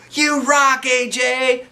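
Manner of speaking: high, loud cheering shout; crowd shout. A narrator's reading. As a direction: yell it out from the audience. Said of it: "somebody shouted".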